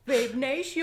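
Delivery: high, loud, stretched-out call; hammed-up high catchphrase yell; imitated video catchphrase. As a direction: belt out the catchphrase slowly, pitch rising.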